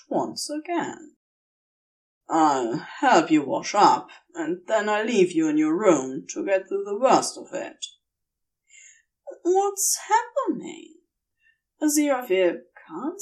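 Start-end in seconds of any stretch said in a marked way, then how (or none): 2.3-7.9 a hint of a calm demon explaining; Crowley, explaining. Crowley helps angel. 9.4-11.0 a woozy angel asking in bewilderment; dazed angel, confused. Acted.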